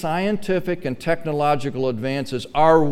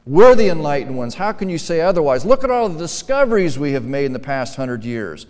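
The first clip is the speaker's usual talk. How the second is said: imitating a scoffing modern man, louder and indignant; arguing modern man; 6 dB louder than usual. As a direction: play the proud sceptic protesting the sermon. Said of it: "They would argue it".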